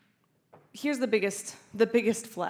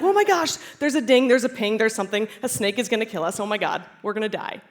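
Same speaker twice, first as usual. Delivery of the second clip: panicked brain; 2 semitones higher, 6 dB louder than usual. Pretend. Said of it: "Every time our brain's like".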